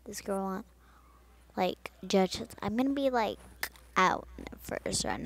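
loud, frustrated complaining. Real, not acted. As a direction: blurt it out in frustration.

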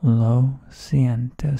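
lo siento very slow and loud, stress on lo; slow loud demo. Shown as a demonstration. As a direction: call out lo siento slowly, leaning on lo. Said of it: "Say it with me all".

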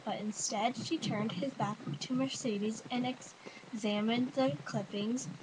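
careful read-aloud from a novel. Acted. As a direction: read it out evenly, word by word. I'm going to read a book.

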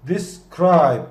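"Describe" with the weight on "-cribe"; de-SCRIBE, land on the end; stress on the last syllable. Shown as a demonstration. Teacher showing students, stress on the last syllable. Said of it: "Cribe da son hecede".

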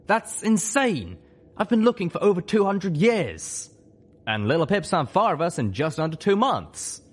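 high, loud character voice in disbelief; Spike, incredulous. Acted.

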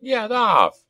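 high, drawn-out order; acted goblin shout to back away; goblin command. A narrator's reading. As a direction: holler it high at a brawler. Goblin whips a brawling rider.

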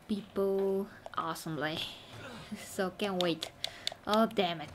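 ordinary talk, nothing marked

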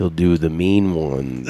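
slow, low mock voice; impression. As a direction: drop low and drawl it out. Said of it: "that sounded like me".

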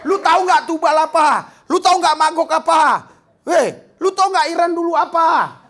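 excited street-slang retelling; newcomer's bragging. Retold or imitated. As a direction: imitate a newcomer hyping the sermon. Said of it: "Dia katakan sama orang-orang".

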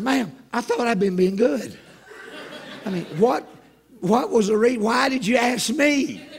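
loud, high, exasperated comic pleading; indignant protest. Acted. Passenger objects to flight attendant singling him out, indignant.

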